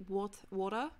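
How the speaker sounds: water with no r at the end, wor-tah; water the Aussie way, no final r; water, Australian style, r dropped. Shown as a demonstration. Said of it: "we say".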